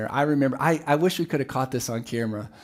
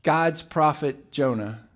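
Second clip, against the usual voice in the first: slow emphasis; slower than usual. Shown as a demonstration.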